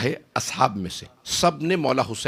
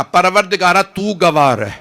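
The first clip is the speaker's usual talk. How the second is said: raised, louder call to God; 5 semitones higher, 7 dB louder than usual. A narrator's reading. Husain calling God to witness, loud and raised. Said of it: "بلند آواز سے کہا".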